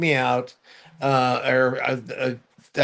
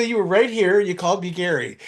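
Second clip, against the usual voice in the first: playful insistence; 4 semitones higher than usual. Retold or imitated. Insisting to the nurse.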